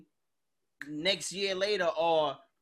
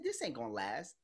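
muttered prediction; 8 semitones lower, 7 dB quieter than usual. Retold or imitated. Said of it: "I said".

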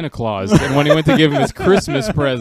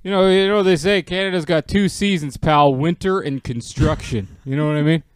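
put-on folksy old-timer; 3 semitones higher, 3 dB louder than usual. Old-timer "pal" bit.

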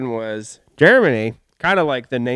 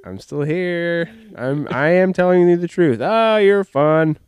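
comedian impression; 3 semitones higher, slower than usual. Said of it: "like, while he's listening, like".

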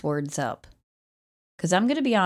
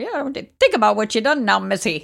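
like a 1920s newscaster or pirate, hammed up; old-timey jailer accent. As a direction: play a gruff jailer booting her out with a put-on accent. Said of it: "I don't know where that accent".

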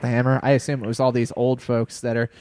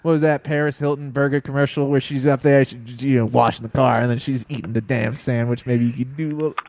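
put-on a light Brooklyn accent; casual New York Brooklyn twang. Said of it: "quit talking like you're from Brooklyn, New York".

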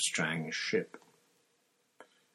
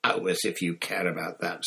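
scoffing; 3 semitones lower than usual. Acted. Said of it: "scoffed Hermione".

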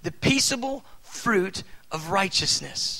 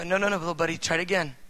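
gentle correcting; much faster than usual. Retold or imitated. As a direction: calmly coax the child. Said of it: "I go".

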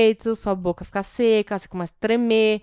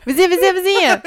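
high, loud, laughing sing-song call of vizinha; Sheldon-style knock call; 8 semitones higher, 5 dB louder, faster than usual. Pretend. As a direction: chant vizinha three times like Sheldon at the door. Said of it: "Eu falo".

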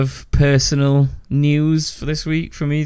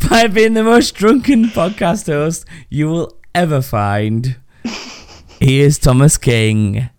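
mock grand announcer; 3 semitones higher than usual. Announces himself as guest host.

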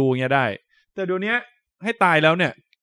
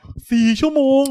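surprised; 10 semitones higher, 4 dB louder than usual. Real, not acted. Hearing of a four-hour surgery.

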